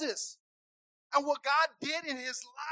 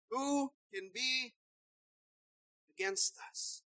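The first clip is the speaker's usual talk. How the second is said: hushed drop; 6 dB quieter, slower than usual. Acted. Hushed scripture close.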